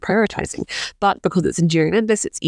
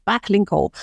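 put-on Irish accent; 4 semitones higher than usual. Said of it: "I genuinely can't help but say that in an Irish accent".

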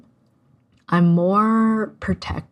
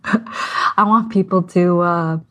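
shaking voice; 3 dB louder, slower than usual. Real, not acted. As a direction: voice trembling with emotion. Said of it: "can you hear my voice shaking?".

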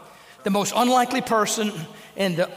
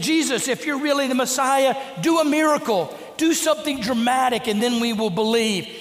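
raised, mocking jeer at Jesus; mocking taunt; 4 semitones higher than usual. Preacher voicing the crowd mocking Jesus, high jeering taunt.

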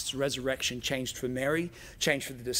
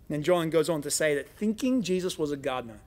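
normal talking voice

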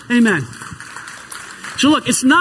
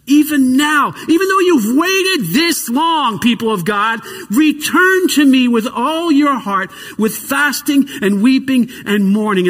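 preaching; 2 semitones higher than usual. Acted. Preaching scripture at full force.

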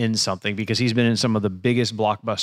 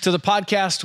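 mock host intro.

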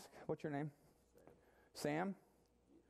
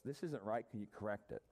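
calm request; 4 semitones lower than usual. Retold or imitated. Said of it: "It was just".

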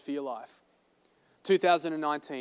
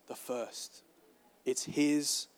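hushed emphasis; 6 dB quieter, much slower than usual. Real, not acted. Emphatic point, dropped quiet.

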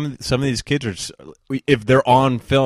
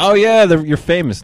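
mock freak-out; 9 semitones higher, 5 dB louder than usual. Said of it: "I wouldn't freak out if I saw them".

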